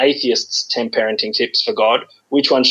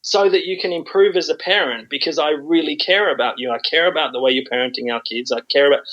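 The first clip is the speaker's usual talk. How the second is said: polite and nasty; 3 semitones higher than usual. Acted. Author giving God parenting tips, polite and nasty. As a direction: feign earnest concern while insulting politely. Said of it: "polite and nasty at the same time".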